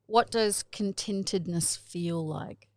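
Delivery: contentedness with rounded South Australian vowels; South Australian accent. Real, not acted. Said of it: "with a New Zealand accent".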